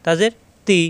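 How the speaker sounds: "তি" with a gentle light t, no pressure; thin clear ee after a soft t in "তি". Shown as a demonstration. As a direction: keep "তি" thin, tongue tip at upper teeth. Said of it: "নরম করে".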